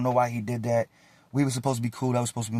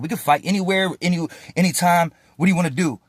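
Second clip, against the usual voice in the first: retold challenge, pitch a bit raised; serious challenge; 4 semitones higher than usual. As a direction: insistently offer a rematch, mildly heated. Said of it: "I was getting serious".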